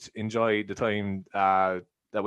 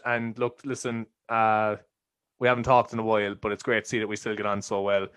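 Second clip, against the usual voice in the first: trying to be nice; 2 semitones lower than usual. Acted. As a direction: lay on the sincerity for a friend. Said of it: "This is me trying to be nice".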